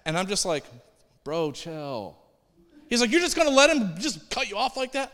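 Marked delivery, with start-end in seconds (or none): 1.2-2.2 understated, unbothered retort; calm reply. Retold or imitated. Own calm reply to upset passenger. 3.1-5.1 high, incredulous mock protest; indignant passenger. Passenger challenging the driver who was cut off, mock indignation.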